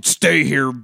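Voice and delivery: mock tough-guy order; slow, put-on macho command. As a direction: play at laying down the law. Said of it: "tough guy shit".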